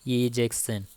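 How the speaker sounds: E जैक्सन said slowly and clearly, the ज voiced with a nukta as z; careful pronunciation. Shown as a demonstration. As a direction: spell it out gently for the student. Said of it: "नुक्ते के साथ है".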